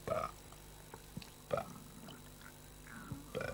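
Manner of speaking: pas, pas, pas, each one short and separate; esophageal syllables. Shown as a demonstration. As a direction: model a steady beat for the patient. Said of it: "essayez, là, de faire des".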